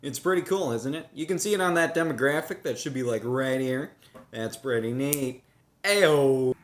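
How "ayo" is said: loud shout; calling out. Real, not acted. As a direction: call out across the woods. Calling out loudly outdoors.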